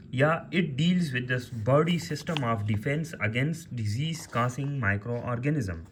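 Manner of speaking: definitions read out slowly for note-taking; teacher dictating the definition word by word; slow dictation. Shown as a demonstration. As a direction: spell out each phrase slowly for students. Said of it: "dictating definition".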